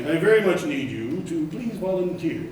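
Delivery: lightly voiced kind, soothing priest; a touch of gentle priestly coaxing. Father asking the pews for volunteers, mildly soothing. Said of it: "He's very kind and smoothing in his voice".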